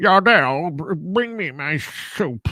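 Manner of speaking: slow character voice, each word dragged out. Reminding someone what a guy sounds like, do a Gary Oldman in Hannibal impression. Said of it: "That that sounds like who's doing the".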